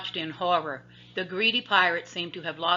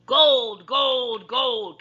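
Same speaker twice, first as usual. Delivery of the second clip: higher, loud greedy cry; gleeful shout; 6 semitones higher, 10 dB louder, much slower than usual. A narrator's reading. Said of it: "Captain Bones shouted".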